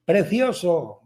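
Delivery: put-on boy calling something nice into a cave; mock child's call. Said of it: "grita algo". (llamada fingida de niño, alargada)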